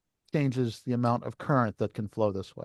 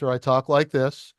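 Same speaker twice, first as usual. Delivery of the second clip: last take, clearly louder and fuller; louder demo; 3 dB louder than usual. Shown as a demonstration. Teacher showing the class a louder input, speaking up. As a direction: push the volume up to show the output growing. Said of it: "it's supposed to get proportionally louder".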